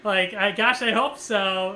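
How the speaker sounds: imitating a nervous attempt at humor; trying to be funny. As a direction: joke along nervously, re-enacted. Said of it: "I was trying to be funny".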